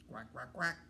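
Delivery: low, quick quacks; duck quacking. A narrator's reading. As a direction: quack like a duck, rising at the end. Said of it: "What did the duck say?".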